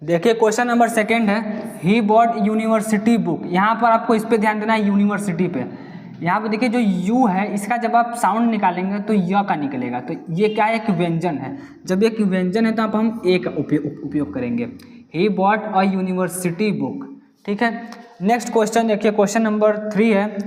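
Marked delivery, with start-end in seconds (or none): 1.8-3.4 slow question read. Shown as a demonstration. Reads question sentence slowly. 15.2-17.1 slow question read. Shown as a demonstration. Reads corrected sentence slowly.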